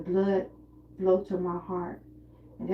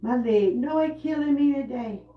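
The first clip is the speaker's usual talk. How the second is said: imitating mom in pain; 4 semitones higher, 5 dB louder than usual. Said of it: "She was like".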